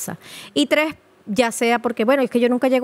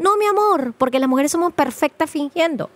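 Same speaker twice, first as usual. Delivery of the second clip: raised, insistent correction; emphatic correction; 5 semitones higher than usual. Real, not acted. Doctor correcting her audience, raised and insistent. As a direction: set the record straight with a lifted voice. Scolding correction, higher pitch.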